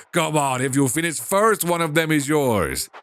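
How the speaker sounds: put-on father's lightly done Russian accent. Father promising one if she finishes first, light Russian accent. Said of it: "him a Russian accent".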